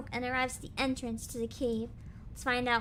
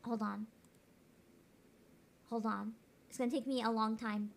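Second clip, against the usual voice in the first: voice changer; 5 semitones lower than usual. Real, not acted. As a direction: voice through a voice changer. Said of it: "I'm using a voice changer".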